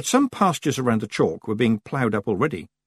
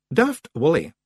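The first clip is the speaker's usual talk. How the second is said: raised, firm warning; icily patient Rob Anybody; 6 semitones higher, 3 dB louder than usual. A narrator's reading. Rob rebuking Daft Willie, icy patience. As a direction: address him with strained patience. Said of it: "with icy patience".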